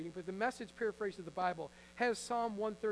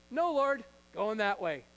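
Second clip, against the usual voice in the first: defiant Jonah; 7 dB louder than usual. Acted. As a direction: dig your heels in like a stubborn prophet. Jonah refusing God, acted scene.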